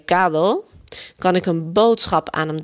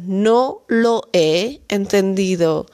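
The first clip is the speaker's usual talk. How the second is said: slow model phrase; slower than usual. Shown as a demonstration. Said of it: "gewoon aan één stuk uit je hoofd te leren".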